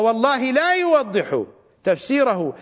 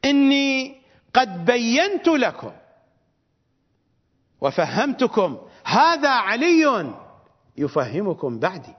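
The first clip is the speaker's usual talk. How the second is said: slow, raised and drawn-out quote of the Prophet; solemn recitation; 3 semitones higher, slower than usual. Acted. Preacher to congregation quoting the Prophet, slow solemn recitation.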